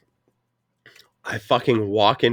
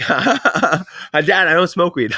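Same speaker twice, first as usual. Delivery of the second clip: high, slow innocent plea; mock innocent; 6 semitones higher, much slower than usual. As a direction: play the innocent son, drawn out. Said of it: "I'm like".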